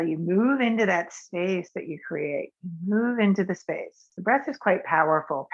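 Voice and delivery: calm, unhurried guiding voice for a breath practice; guided meditation. Acted. Teacher guiding a class through breath practice, soothing. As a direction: lead the breathing gently and evenly.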